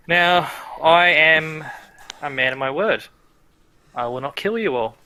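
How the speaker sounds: a hint of a grand villain promising; villain Baal.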